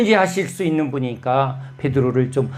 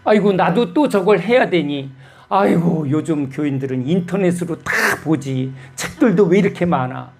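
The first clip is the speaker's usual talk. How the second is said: grumbling; 2 semitones higher than usual. Retold or imitated. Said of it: "막 투덜투덜 하고 있는 거예요".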